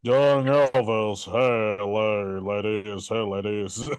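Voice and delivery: low, slow crooner voice; lightly voiced crooner; Austin Butler's singer portrayal. Mocking Butler's singer portrayal to friends on the podcast. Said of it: "after two hours of Austin Butler".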